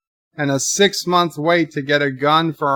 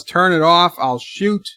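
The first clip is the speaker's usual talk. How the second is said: retold yell; 4 semitones higher, 4 dB louder than usual. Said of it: "She yells".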